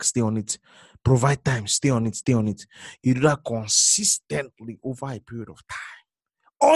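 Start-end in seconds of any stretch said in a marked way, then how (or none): 3.0-6.7 slow whisper to the crowd; a slow, secretive whisper; whispered aside. Acted. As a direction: lean in and whisper it slowly. Preacher drops to intimate aside.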